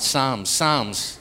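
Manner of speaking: Psalms twice with an open ah like Walmart; Irish Psalms. Shown as a demonstration. Preacher repeats Psalms for the congregation, Irish style. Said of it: "Just think of Walmart".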